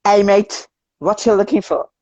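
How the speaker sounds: put-on lightly done Aussie accent, casual; a hint of Australian twang, friendly. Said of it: "in an Australian accent".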